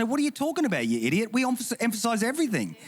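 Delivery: high-pitched incredulous retort; playfully indignant comeback; mock exasperation. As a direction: shoot back in mock disbelief, voice jumping up. Acted retort to a complaining churchgoer.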